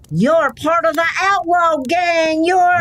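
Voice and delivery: gasp, then a frightened accusation; wounded woman gasps at the mask; alarmed gasp. Acted. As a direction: recoil from the masked stranger. Woman sees masked man.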